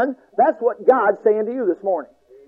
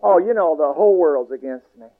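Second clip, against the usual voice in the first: mock self-pitying whine, trailing lower; whining; 7 semitones lower than usual. Shown as a demonstration. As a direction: whine as if everyone is against you. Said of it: "I'll whine now".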